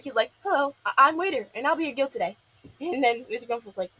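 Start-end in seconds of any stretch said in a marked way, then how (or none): 0.4-2.4 mock-nervous, higher-pitched stumbling greeting; scared waiter. Scared Gil greets his grumpy customer as waiter, mock-nervous. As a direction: act out a timid, flustered waiter. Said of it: "Gil is so scared".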